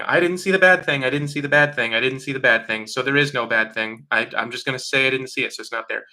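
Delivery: starts high and loud, settling toward normal; mock insistent denial. People mocked for ignoring the bad thing, insistent denial. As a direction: chant it to convince yourself it isn't there. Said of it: "just going".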